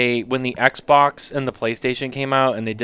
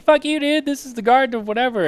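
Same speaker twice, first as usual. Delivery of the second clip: mock Cartman voice; 11 semitones higher than usual. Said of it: "And he's like".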